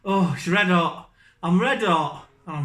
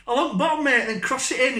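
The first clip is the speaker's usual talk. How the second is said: mock frustrated mate; 6 semitones higher than usual. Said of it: "You're like".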